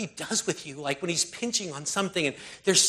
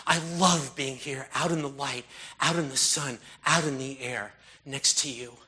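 prayer. Acted. Prays aloud to God.

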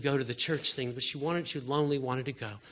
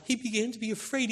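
higher and quicker; higher, quicker retelling of Jesus' fear; lifted, urgent; 7 semitones higher, faster than usual. Real, not acted. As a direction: lift it and press on. Same words repeated with a lift.

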